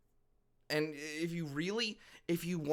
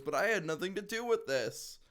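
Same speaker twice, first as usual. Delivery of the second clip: mock whine, a bit higher; whiny voice; 5 semitones higher than usual. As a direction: whine it like a guilty chief. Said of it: "in a whiny voice goes".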